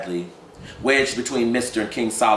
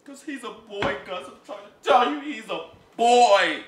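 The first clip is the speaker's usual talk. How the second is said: insistent mother; 13 semitones higher, 3 dB louder than usual. Acted. Emma Jean insists.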